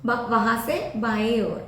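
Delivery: slow teaching demo. Shown as a demonstration. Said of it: "correct ആയിട്ട്".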